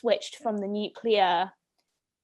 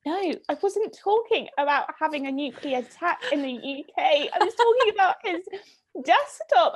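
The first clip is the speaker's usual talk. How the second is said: mock-exasperated, speeding up toward the end; exasperated protest; 4 semitones higher than usual. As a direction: correct a silly misunderstanding, increasingly exasperated. Retelling her protest at misunderstanding.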